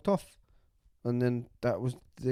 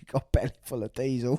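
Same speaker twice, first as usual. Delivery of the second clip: gloating prankster; faster than usual. Retold or imitated.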